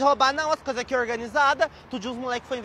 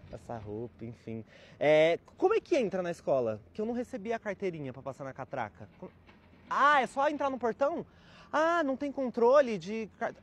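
put-on snobby rich kid; 4 semitones lower than usual. Rich kid Enzo introduces himself at the public school, snobby. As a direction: play the spoiled private-school boy, politely snobbish.

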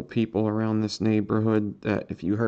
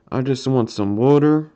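Philadelphia accent, louder, "water" lifted at the end; 2 semitones higher, 5 dB louder than usual. Shown as a demonstration. Streamer repeating it for viewers, louder Philadelphia accent. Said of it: "Philadelphia accent".

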